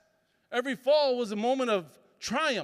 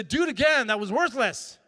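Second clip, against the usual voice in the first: harsh demand; 4 dB louder than usual. Retold or imitated. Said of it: "And say".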